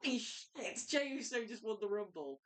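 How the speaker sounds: excited fan. Retold or imitated. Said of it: "you did not go".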